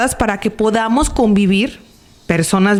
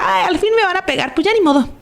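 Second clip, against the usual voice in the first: resigned inner thought; 9 semitones higher, faster than usual. Retold or imitated. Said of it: "O decía".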